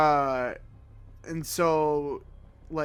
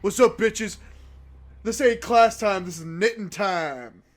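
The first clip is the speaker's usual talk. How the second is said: higher, swaggering class show-off; mock swagger, mostly pitched up; cool person; 5 semitones higher, 4 dB louder than usual. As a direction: play it cocky and too cool for class. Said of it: "trying to be the cool person".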